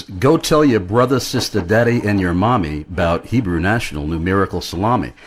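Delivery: hammed-up Yiddish-accented ad jingle, lightly done. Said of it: "which I sang in a recording, uh, in a Yiddish accent".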